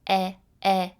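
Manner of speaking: "e, e" said as a short open "eh" sound. Shown as a demonstration. Teacher sounding out elephant's first sound. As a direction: isolate the "e" of elephant.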